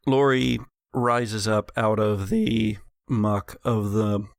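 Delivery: rising dramatic narration; game master narration. A narrator's reading. Game master describing Lori's spell for players, dramatic. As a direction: paint the spell's effect for the table.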